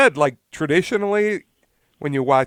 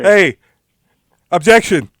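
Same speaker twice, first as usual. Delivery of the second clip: shouted objection; 7 semitones higher, 14 dB louder than usual. Pretend. Mock trial, objecting to defense.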